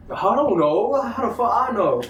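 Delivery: high, panicked comeback, hammed up for the story; re-enacted panic. Boyfriend answering girl as her dad approaches, re-enacted panic. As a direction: act out being scared of getting caught. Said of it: "I was shitting bricks".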